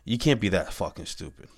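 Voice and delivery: said through a real laugh; amused, disbelieving laugh on the words. Real, not acted. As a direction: laugh at how dumb it is. Repeats the aside with a laugh.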